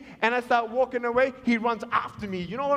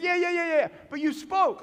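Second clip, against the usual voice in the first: eager insisting; 7 semitones higher than usual. Retold or imitated. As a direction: brush the objection aside eagerly. Callers eagerly insisting over his objection.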